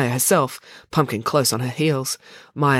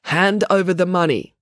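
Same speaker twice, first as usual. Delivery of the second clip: reading out; 5 semitones higher, 4 dB louder than usual. Acted. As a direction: read the phrase out, slightly raised pitch. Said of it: "read out the words".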